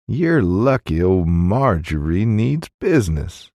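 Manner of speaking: Marjorie sung up and down, slow; sing-songy Marjorie. Acted. Innkeeper naming herself to William, sing-songy Marjorie. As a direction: lilt the name Marjorie like a tune. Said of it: "pronouncing Marjorie in a sing-songy manner".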